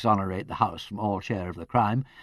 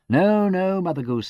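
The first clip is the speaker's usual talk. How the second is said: hasty; 6 semitones higher, 7 dB louder than usual. A narrator's reading. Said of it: "said Peter hastily".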